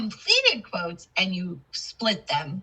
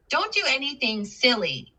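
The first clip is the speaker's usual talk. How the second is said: pitched up, then dropping on SILLY; falling intonation; 4 semitones higher than usual. Shown as a demonstration. Teacher contrasting a statement with a question, falling intonation. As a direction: let SILLY fall away at the end. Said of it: "It goes down".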